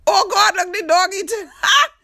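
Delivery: high, loud words through real laughter; laughing hard. Real, not acted. Host watching the dog eat the spilled food, laughing loudly. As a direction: crack up while describing it.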